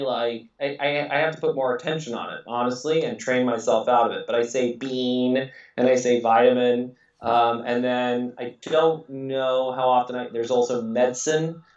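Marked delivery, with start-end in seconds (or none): 4.8-5.5 "bean" said the British way, not the American one; a quick British "bean" slipped into American talk. Shown as a demonstration. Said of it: "the British pronunciations of those words". 6.2-6.9 "vitamin" with the British first syllable, like "vit"; a British "vitamin" inside an American accent. Shown as a demonstration. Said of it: "the British pronunciations of those words".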